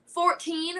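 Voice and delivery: earnest little flirt; straight-faced. Retold or imitated. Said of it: "Like, just straight face".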